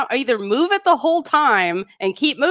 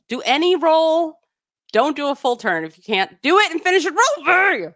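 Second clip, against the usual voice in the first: worked-up rant; 3 semitones higher than usual. Real, not acted. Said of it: "only thing I believe I've ever spit while discussing".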